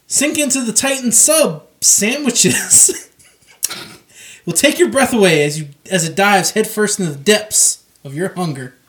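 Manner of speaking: hammed-up sponsor read, punched product name; mock ad read. Co-host reading a joke sandwich ad, hammed-up announcer.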